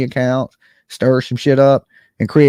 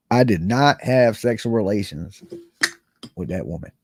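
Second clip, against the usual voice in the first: Clinton quote; 7 semitones lower, 4 dB quieter than usual. Retold or imitated. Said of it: "Monica Lewinsky".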